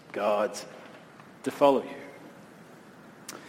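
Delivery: slowing, sinking to a whisper by the end; fading despair. Retold or imitated. Joshua doubting before God, slowing to a whisper. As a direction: let the courage drain out word by word. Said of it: "He's thinking".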